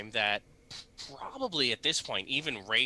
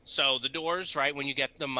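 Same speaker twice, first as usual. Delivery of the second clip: ordinary talk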